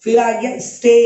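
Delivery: स्टे with a long drawn ay; long ay in stay. Shown as a demonstration. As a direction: draw out the vowel of स्टे. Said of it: "लंबा उच्चारण निकला". (स्टे को लंबा खींचकर)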